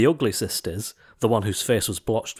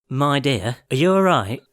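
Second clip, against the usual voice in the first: a touch higher, kindly fairy; lightly voiced fairy; 3 semitones higher, 3 dB louder than usual. A narrator's reading. Fairy asking Cinderella if she is all right, lightly voiced. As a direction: ask gently as a fairy.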